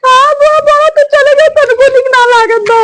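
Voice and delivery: high-pitched, weepy complaint; plaintive crying voice; tearful. Acted. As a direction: say it through tears, missing her. Tearful phone call, missing aunt.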